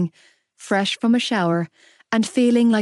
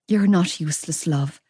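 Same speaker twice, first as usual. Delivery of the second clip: gentle, dropping lower on love; soothing; 3 semitones lower than usual. Acted. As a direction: comfort a weeping daughter. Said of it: "Mam soothed".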